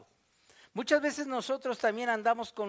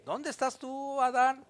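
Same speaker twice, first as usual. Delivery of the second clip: calling out to Adam; 5 semitones higher than usual. Acted. God calling out to the hiding Adam, gently. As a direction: call him out of hiding, gently.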